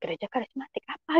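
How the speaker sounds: quietly wondering to oneself; puzzled inner voice. Retold or imitated. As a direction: think it aloud under your voice. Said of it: "dalam hati saya".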